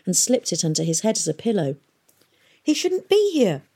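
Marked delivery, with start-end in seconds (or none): 2.6-3.6 high, indignant outburst; angry. A narrator's reading. Catherine protesting to Nimmo about the sick prisoner, angry. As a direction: protest hotly. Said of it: "she said angrily".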